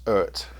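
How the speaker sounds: "Ert" with an ur vowel, ending in t; pronounced ERT. Shown as a demonstration. Reviewer passing on the brand's pronunciation, "Ert" said as one ur syllable. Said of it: "I'm told it is pronounced".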